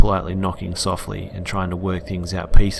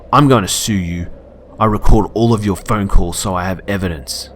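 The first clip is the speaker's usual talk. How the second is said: louder, threatening customer; louder angry threat; 6 dB louder than usual. Retold or imitated. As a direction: threaten to sue.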